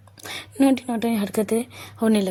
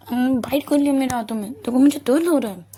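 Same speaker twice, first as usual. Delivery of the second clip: whiny complaint; 4 semitones higher, 6 dB louder than usual. Acted. Aarohi complains Sanju bit her.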